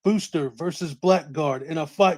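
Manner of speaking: dramatic movie trailer announcer; serious announcer voice. Acted. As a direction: boom out the hype like a promo. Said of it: "Get that serious announcer voice going".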